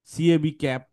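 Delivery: letter names, then ক্যাব with no puff on the k; ক্যাব starting on plain ক; wrong pronunciation. Shown as a demonstration. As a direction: spell সিএবি, then ক্যাব with an unaspirated k. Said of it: "ভুল উচ্চারণ শিখছো".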